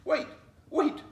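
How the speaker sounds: high, loud pleading cry. A narrator's reading. Fox calls after Flossie, loud high pleading. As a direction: beg her to stop, loud and high. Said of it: "Fox pleaded".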